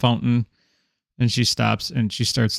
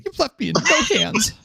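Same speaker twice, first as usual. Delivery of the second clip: high indignant retort; 11 semitones higher than usual. Acted. NPC rebukes player.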